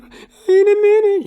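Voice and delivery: high, loud stalling whine, slow; high mock kid whine; whiny kid. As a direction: stall mom like a flustered kid. Kid answering mom, retold.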